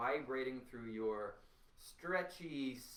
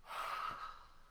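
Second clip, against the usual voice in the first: release sigh; 3 dB quieter than usual. Shown as a demonstration. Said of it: "And then you let it go".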